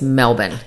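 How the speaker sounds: Melbourne as MEL-bn, second vowel covered up; Melbourne with no R and a swallowed ending; Melbourne, local way. Shown as a demonstration. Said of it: "you have to kind of rush the".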